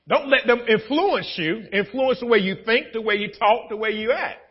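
high, pressing preacher voice; preaching. Acted. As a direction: preach it out to the church. Preaching at full force.

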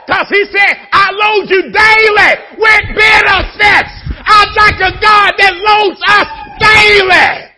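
very high, very loud, slow preaching cry; hollering with joy; ecstatic shout. Real, not acted. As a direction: shout the promise to the rafters. Ecstatic sermon climax.

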